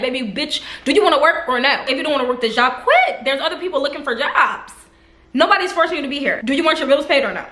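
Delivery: scolding a lazy coworker, fed up and sharp. Retold or imitated. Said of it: "I'm being very vocal at the job".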